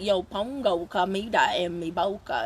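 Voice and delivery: mock Beth's Savannah-drawled Spanish; Spanish with a Georgia southern drawl, drawn out slowly. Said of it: "Beth would be like".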